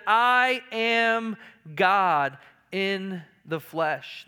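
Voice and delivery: "I am God" drawn out slowly, each word given weight; emphatic declaration. Retold or imitated. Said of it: "is an emphatic here".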